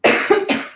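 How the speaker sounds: coughing fit; harsh choking cough; hard choking cough. Real, not acted. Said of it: "just choking".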